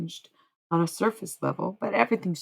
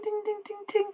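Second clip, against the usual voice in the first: imitated ting; 5 dB quieter than usual. Shown as a demonstration. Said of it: "you can hear a little ting".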